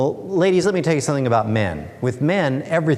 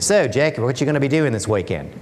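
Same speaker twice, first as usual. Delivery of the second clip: a light, hammed-up Australian accent, only hinted; bad Australian accent. Construction worker asks his mate about weekend plans, bad Australian accent. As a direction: play a blue-collar Aussie bloke in a deliberately bad Australian accent. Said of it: "I'll try my really bad Australian accent here".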